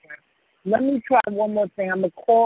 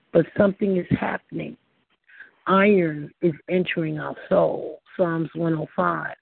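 sermon reading. Acted. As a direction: read it like a devotional. Reads a devotional sermon.

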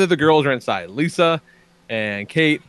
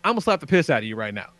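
mocking threat; 3 semitones higher than usual. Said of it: "I go".

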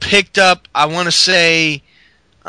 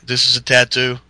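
lower, gruff mock Orton; Randy Orton; 6 semitones lower than usual. Orton answering the interviewer, low mock voice. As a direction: say it low and deadpan. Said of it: "Randy Orton's like".

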